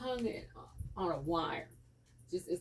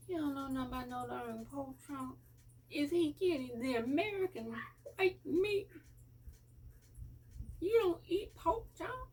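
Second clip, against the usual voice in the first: mock incredulous; 8 semitones higher than usual. Mother to her new son, hammed-up high incredulous voice. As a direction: play up her shock at a kid refusing pork.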